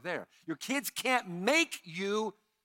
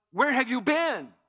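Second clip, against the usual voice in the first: louder, higher: where have you been; plain worried question; 5 semitones higher, 8 dB louder than usual. Retold or imitated. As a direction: ask it like a worried mother would. Quoting the plain question, loud.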